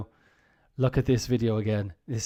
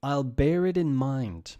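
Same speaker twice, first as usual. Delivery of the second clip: polite brush-off; 2 semitones higher, 5 dB louder, slower than usual. Shown as a demonstration. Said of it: "next one".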